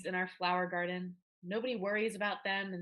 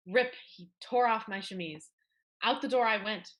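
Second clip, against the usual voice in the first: louder, building to a defiant outburst; heated retelling; 2 semitones higher, 4 dB louder than usual. Acted. Girl telling friends how Papa threw her out, heated and loud. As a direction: relive the punishment with rising heat.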